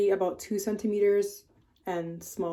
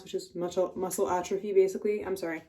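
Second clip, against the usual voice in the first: slightly slurred words; slurred speech. Real, not acted. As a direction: let the words run together a little. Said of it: "I'm slurring my words right now".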